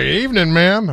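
a hint of a country accent greeting a lady. Talk show host playing an alien greeting a woman, mild country accent. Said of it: "I would get a country accent".

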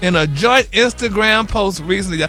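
upbeat, emphatic celebrity news read; excited gossip report. Real, not acted. Gossip reporter announcing a baby to listeners, excited news delivery.

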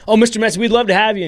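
high-pitched, fawning host voice; eager restaurant host. Retold or imitated. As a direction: gush at a famous guest, imitating a host. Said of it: "reserve a spot at a restaurant".

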